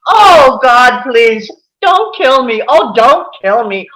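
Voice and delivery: panicked, crying shout that settles into loud begging; terrified pleading. Acted. Hans pleading with McLean for his life, panicked cry. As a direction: beg for your life, half sobbing.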